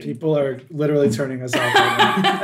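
ordinary talk, nothing marked

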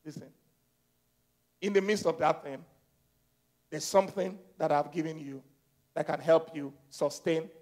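low, soft, measured voice; God speaking. Acted. God telling Paul about grace, low quiet assurance. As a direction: explain quietly, pausing between phrases. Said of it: "God said".

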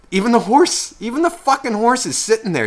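high-pitched, incredulous complaint; exasperated disbelief. Retold or imitated. Viewer retelling anger at the horse scene, exasperated disbelief. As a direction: push the pitch right up in disbelief. Retold rant at the film.

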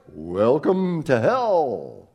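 slow mock booming devil greeting; drawn-out devil welcome, lightly voiced. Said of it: "Satan will say in this booming voice".

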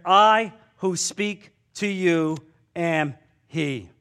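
slow, solemn declaration as Jesus. Acted. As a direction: let each word land slowly, like a revelation. Jesus quoted, solemn reveal.

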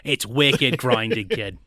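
slow mock Boston accent; drawn out, hammed-up Boston accent. Host mocking the grinding Boston accent, slow and put-on. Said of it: "they hate the Boston accent".

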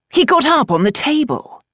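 incredulous echo. A narrator's reading. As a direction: echo it back in disbelief. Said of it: "Byron could not help but echo".

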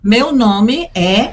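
slow, clear teacher demo; slow model phrase. Shown as a demonstration. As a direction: spell out each word slowly. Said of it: "¿Y cómo me presento?".

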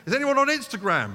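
preacher imagines calling out to a crowd, hammed-up; mock public call. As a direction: call out to the room like a street announcer.

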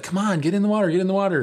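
retold eager call to come join in; mock urging. Boys urging a hesitant friend.

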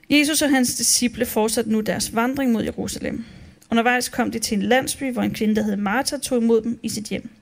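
steady, measured reading of a Bible passage; calm Bible reading to the congregation; scripture reading. Acted. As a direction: read the text aloud like in church. Reads the day's Bible text.

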